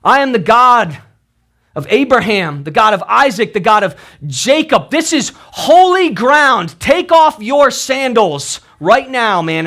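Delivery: a hint of a booming God calling to Moses; voice of God crying out. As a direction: proclaim it like a divine voice from the bush. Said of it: "this voice begins to cry out".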